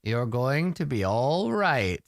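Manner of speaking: slow, lightly acted bedside comfort; mock reassurance. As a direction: soothe the patient, drawing it out. Sorcerer reassures the patient.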